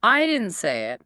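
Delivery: mildly defensive, leaning on who said it. Acted. Student voicing the hidden message, defensive. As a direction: defend yourself, stressing "I", "you", "she", "me". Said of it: "It sounds like I'm defending myself".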